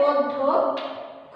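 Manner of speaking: "অধ্যক্ষ" drawn out as od-dho-kkho; correct pronunciation. Shown as a demonstration. Teacher gives students the correct pronunciation, slowly sounded out. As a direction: slowly split "অধ্যক্ষ" into syllables, doubling the dh. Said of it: "সঠিক উচ্চারণটা হচ্ছে".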